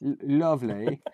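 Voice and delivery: a strained attempt at a Cockney lovely; failed Cockney. Shown as a demonstration. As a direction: try the Cockney and fall short. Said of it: "I can't do it, man".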